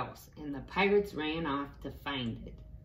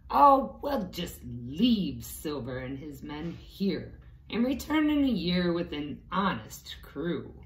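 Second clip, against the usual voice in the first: captain declaring; 4 dB louder than usual. Acted. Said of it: "he declared".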